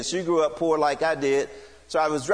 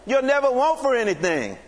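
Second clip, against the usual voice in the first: impassioned plea; 7 semitones higher than usual. Retold or imitated. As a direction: pour it all out to win her over. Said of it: "something went off on the inside of me".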